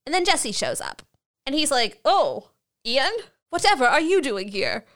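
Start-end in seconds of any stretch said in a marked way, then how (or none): 2.0-4.8 put-on weird British accent. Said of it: "why does he have a weird accent now".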